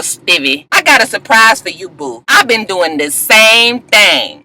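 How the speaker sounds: mock sassy wife telling off her man; lightly voiced sassy girlfriend, taunting; wife tells cheating partner she did the same, a hint of sass; sassy Jocelyn. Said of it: "was just like".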